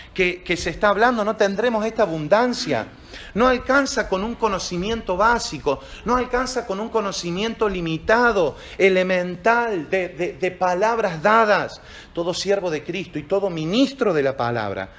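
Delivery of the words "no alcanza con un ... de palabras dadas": repeated "no alcanza" lines, slowing at the end; preaching emphasis. Acted. Pastor to congregation: insistent preaching, slowing down. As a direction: drive it home, then draw it out.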